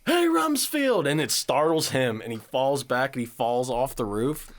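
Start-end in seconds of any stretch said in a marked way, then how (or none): 0.0-1.1 very high, slow drawn-out call; long high-pitched hey. Retold or imitated. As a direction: yell up to the roof to startle him. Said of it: "he goes".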